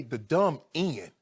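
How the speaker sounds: "The dumb end" said slowly, each word dragged out in disgust; slow, scornful echo of "The dumb end"; slow mocking repeat. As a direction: drag "dumb end" out as if it tastes bad. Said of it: "For him to say".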